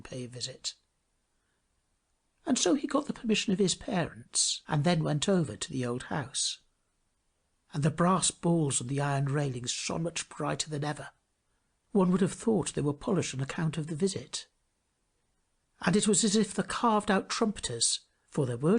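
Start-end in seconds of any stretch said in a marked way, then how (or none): none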